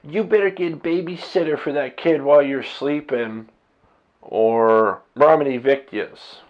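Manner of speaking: a lightly voiced, snide landlord; a touch of a sneering landlord warning; mocking the landlord. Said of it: "basically said".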